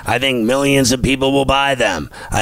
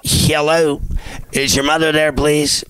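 mock caller; 2 semitones higher than usual. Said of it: "one of my favorites as well".

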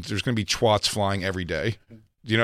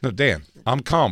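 forced calm; slower than usual. Pretend. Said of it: "people who talk like that are not calm".

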